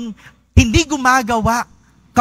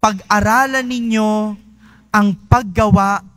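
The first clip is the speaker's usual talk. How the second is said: solemn scripture reading. Acted. Quoting Prophet Isaiah.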